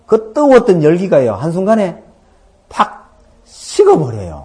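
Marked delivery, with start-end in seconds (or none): none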